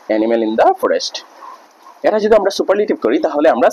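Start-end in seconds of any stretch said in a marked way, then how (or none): 0.1-1.2 each word of animal in the forest said very slowly and spaced out; slow dictation. Shown as a demonstration. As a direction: dictate it slowly so students can write it down.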